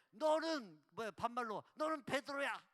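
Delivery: loud, blunt banmal. Shown as a demonstration. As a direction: fire it back loudly as an equal. (반말로 크게 맞받아치며)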